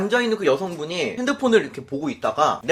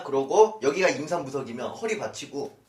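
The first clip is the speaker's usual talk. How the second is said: normal talking voice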